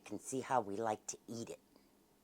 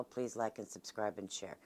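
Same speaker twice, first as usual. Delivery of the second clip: normal talking voice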